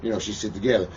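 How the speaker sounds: polite request. Retold or imitated. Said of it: "you can ask me".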